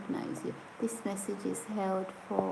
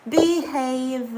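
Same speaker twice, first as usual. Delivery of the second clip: playful scolding; 4 semitones higher, 7 dB louder than usual. Real, not acted. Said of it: "scolding viewer Sarah".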